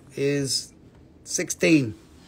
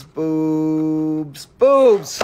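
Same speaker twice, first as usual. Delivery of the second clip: excited call-out; 6 dB louder than usual. Real, not acted. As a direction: call out to a friend who just showed up. Greeting a viewer by nickname.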